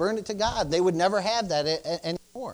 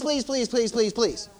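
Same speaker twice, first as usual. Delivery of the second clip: emphatic pleading. Shown as a demonstration. Preacher demonstrates begging the congregation, emphatically pleading. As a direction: rattle off the pleas as the appeal winds down. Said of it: "That's emphatic".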